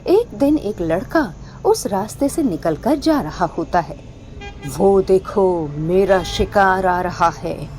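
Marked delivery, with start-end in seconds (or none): 4.8-7.7 low, slow gloating witch voice; menacing witch. Acted. Witch eyeing a boy on the lonely road, low gloating. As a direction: savour the prey like a hungry witch. Witch spots her prey.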